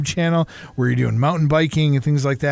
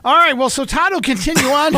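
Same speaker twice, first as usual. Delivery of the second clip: laughing; 4 dB louder than usual. Real, not acted. Laughing at his own punchline.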